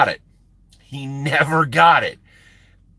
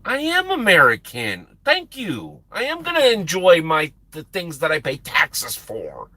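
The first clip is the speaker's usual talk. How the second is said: higher, emphatic retold retort; mock indignation; 4 semitones higher than usual. Trucker answering a parting jab, mildly indignant. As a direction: declare it with a touch of offended pride.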